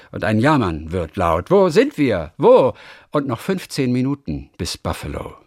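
dramatic ballad recitation; poem recitation. Acted. Recites the ballad John Maynard.

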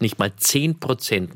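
"zehn Prozent" repeated slowly, stress on "zehn"; savoured emphasis. Real, not acted. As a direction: let "zehn Prozent" sink in, word by word. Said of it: "auf der Zunge zergehen lassen". („zehn Prozent“ langsam und nachdrücklich betont)

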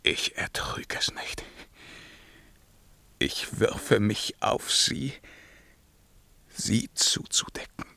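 hushed, broken whisper over the dead; king whispering over his dead beloved; grieving whisper. Acted. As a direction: whisper it to yourself.

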